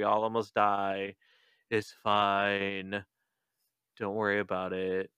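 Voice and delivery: resigned, softly muttered spiral; Jake. Acted. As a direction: play a worn-out leader quietly giving up. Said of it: "sitting there having a nervous breakdown".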